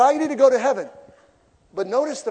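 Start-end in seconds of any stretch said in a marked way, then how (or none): 0.0-0.9 louder, higher playful plea; hammed-up urgency; mock Jesus. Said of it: "And he said".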